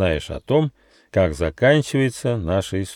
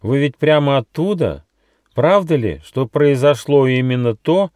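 higher-pitched, inquiring kangaroo; polite questioning; 6 semitones higher, 4 dB louder than usual. A narrator's reading. Kangaroo asks travellers about the rumour, politely. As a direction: ask with careful politeness, pitched up. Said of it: "вежливо спросила кенгуру Ругена".

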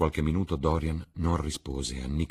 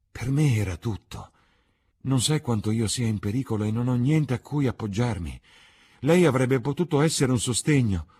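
mounting bitter outburst; 8 semitones higher, 6 dB louder than usual. A narrator's reading. Dorian's grief turns to anger.

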